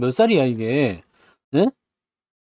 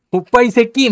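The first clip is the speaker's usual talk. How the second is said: higher-pitched, playful angry outburst; mock sibling squabble; 5 semitones higher, 3 dB louder than usual. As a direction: imitate a bickering younger sibling cursing. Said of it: "막 그러면서 싸워". (남매 싸움 흉내 내듯 장난스럽게 버럭)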